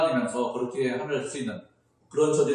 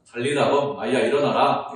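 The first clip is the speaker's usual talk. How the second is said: commanding call; 6 dB louder than usual. Acted. Jesus raising the dead girl.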